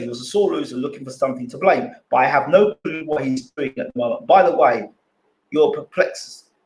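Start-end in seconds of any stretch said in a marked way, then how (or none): 5.5-6.5 robotic glitchy audio, like a robot; choppy robot-like connection voice. Real, not acted. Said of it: "You sound like a robot".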